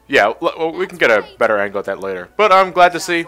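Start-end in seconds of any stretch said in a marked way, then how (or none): 2.4-3.2 sarcastic. Real, not acted. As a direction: fake cheerful, dripping sarcasm. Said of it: "I'm being completely sarcastic here".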